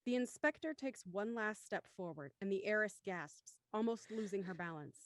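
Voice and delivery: measured scene-setting narration; story narration. A narrator's reading. Narrator moving to the study minutes before, measured narration. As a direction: narrate evenly, falling at phrase ends. Reads stage directions.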